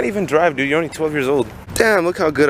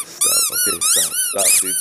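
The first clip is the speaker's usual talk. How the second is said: much higher, squeaky mock whine of stop; 5 dB quieter than usual. Telling Nathan to stop, mocking.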